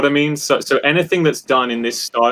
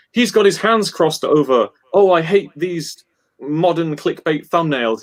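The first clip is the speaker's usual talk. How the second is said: grumpy viewer; 5 semitones higher, slower than usual. Retold or imitated. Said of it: "some person that doesn't know that saying".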